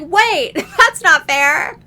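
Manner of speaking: high, loud, laughing complaint; whiny protest. Retold or imitated. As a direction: protest like a wronged kid. Sarah protests the unfair timer.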